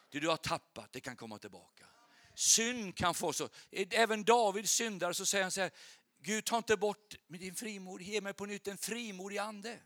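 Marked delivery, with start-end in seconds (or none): 2.4-9.8 raised, emphatic sermon voice; fervent preaching. Real, not acted. Preacher promises God restores lost boldness, fervent preaching. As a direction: urge hope on the congregation.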